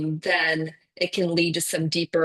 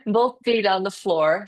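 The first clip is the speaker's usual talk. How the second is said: higher-pitched, with little laughs breaking in; amused restart; 5 semitones higher, faster than usual. Real, not acted. Teacher restarting for a latecomer, amused and chuckling. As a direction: chuckle while picking the instruction back up.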